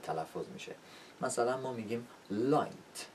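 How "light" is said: "لایت" with a crisp clear L at the start; lively initial L in "لایت". Shown as a demonstration. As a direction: give the L of "لایت" full life, tongue tip forward.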